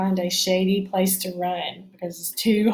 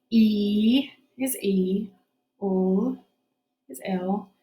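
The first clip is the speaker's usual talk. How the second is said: whispering; much slower than usual. Shown as a demonstration. Whispered slow letter sound.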